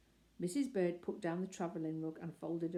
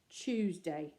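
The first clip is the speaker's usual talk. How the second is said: firm; 3 dB louder than usual. Acted. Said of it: "said Mister Brown firmly".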